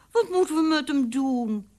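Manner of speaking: put-on high child's voice; little girl. A narrator's reading. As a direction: ask as a small daughter. Daughter asks what to do.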